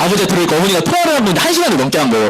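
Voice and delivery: normal talking voice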